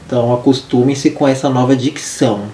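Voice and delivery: slight lisp from braces. Real, not acted. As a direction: braces on teeth, lisping a little. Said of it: "eu tô falando igual uma cobra".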